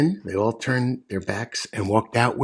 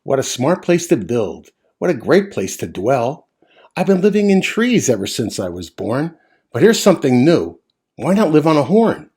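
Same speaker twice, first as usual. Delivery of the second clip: chirping bird. Acted. Zinazoo bird admiring the antlers, chirpy. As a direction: chirp it like a nosy little bird. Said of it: "he chirped".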